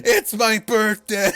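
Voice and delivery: loud, slow, high-pitched holler; laughing imitation of a wrestler's yell; mock scream. Host joins in mimicking the wrestler, mock screaming. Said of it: "Dave Young just screamed".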